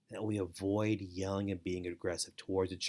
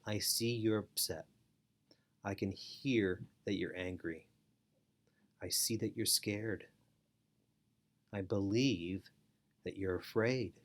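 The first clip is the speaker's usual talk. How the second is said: calm validation; 3 dB quieter than usual. Shown as a demonstration. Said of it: "by saying things like this".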